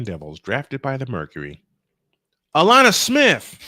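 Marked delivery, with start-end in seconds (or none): 2.6-3.6 high, loud aha shout; realization. Real, not acted. Finally solving the player trivia, a loud excited blurt. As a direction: blurt out the answer as it dawns.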